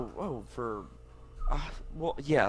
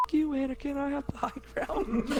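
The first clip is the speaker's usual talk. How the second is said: Obi-Wan impression. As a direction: shout it like Obi-Wan at Anakin. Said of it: "Guys, this movie's P G thirteen".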